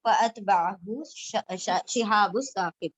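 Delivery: slow, measured Arabic recitation with drawn-out vowels; Quran recitation. Acted. Teacher recites the verses before translating, in slow Quranic recitation. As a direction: recite the verses slowly, stretching the long syllables.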